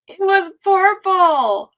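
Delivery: stretched out slowly, savoring it; slow and drawn out. Real, not acted. Savoring her purple antifreeze for chat, slow and drawn out. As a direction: linger on every word.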